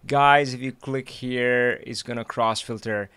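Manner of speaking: slow, bored droning. Retold or imitated. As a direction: drone it out like a bored presenter. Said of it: "droning on in this bored voice".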